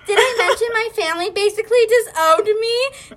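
high, hurried, hammed-up meltdown; mock tearful rant. A narrator's reading. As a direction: pour out every grievance in a mock meltdown. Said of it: "tears were streaming down my face".

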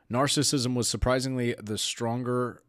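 words wobbling on a suppressed laugh; fighting back laughter. Real, not acted. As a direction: try to stay serious while laughing.

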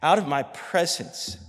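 slow, scornful command; contemptuous order. Acted. Amnon ordering his servant to remove her. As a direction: spit out the disgust. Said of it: "calls for his servant and says".

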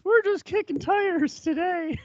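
high, slow, put-on voice of the brother; brother brushing off. Brushing off the pushy salesman, high and slow put-on voice. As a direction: drawl it out, deadpan and dismissive.

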